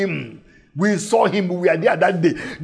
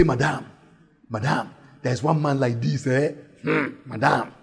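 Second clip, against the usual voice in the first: hushed gossip; 6 semitones lower, 5 dB quieter than usual. Acted. Villagers gossip to the woman.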